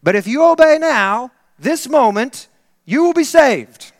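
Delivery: put-on preacher rebuking a teenager, loud; stern preacher warning. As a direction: warn the miserable young man. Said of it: "and said".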